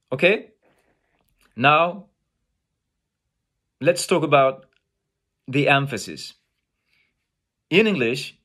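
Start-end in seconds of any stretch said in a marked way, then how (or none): none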